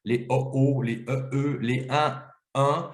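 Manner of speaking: "o o", "e e", "un, un" as close vowel pairs; paired vowel sounds. Shown as a demonstration. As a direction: sound out each vowel in two near variants. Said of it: "ces sons qui sont très proches".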